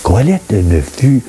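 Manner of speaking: measured recitation with pauses between phrases; solemn scripture reading. Acted. Reading Ecclesiastes aloud for listeners to reflect on, measured scripture reading. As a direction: read it as sacred verse, phrase by phrase.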